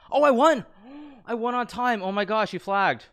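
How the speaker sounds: high, loud shrieks of joy; shrieking jackpot winner. Real, not acted. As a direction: scream with disbelieving delight. Wins on time, disbelief.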